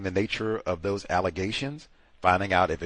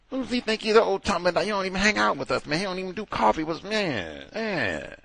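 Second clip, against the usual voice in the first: higher whiny coworker voice; petty coworkers griping that he skips coffee with them, higher and whiny; mocking coworkers; 9 semitones higher than usual. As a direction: whine like petty coworkers gossiping. Voicing resentful coworkers.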